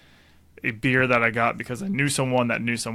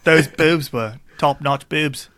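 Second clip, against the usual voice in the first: Michael Caine impression; 3 semitones higher, slower than usual. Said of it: "that's your Michael Caine".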